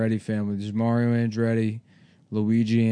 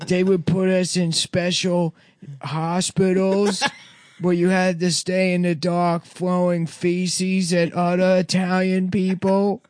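put-on Italian accent; 6 semitones higher than usual. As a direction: deliver the book report in a New Jersey Italian voice. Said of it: "He's doing an Italian accent".

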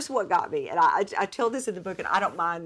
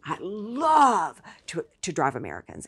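put-on thick Italian accent. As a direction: mimic the Italian taxi driver's accent, half-heartedly. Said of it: "I wish I could do her thick accent".

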